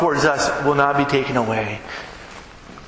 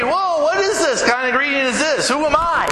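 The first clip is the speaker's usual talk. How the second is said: high, mock-startled questioning; raised pitch, acted alarm; imitating afraid; 8 semitones higher than usual. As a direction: voice a bewildered, fearful young woman, lightly acted. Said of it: "Mary was afraid".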